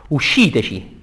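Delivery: mild shouted command within verse; declaimed cry. Acted. Ferryman Fleggias to his passengers, declaimed cry. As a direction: call it out without full force. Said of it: "gridò".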